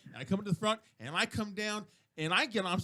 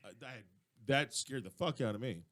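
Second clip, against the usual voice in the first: shaken admission; 9 semitones lower, 6 dB quieter than usual. Retold or imitated. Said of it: "I'm like going".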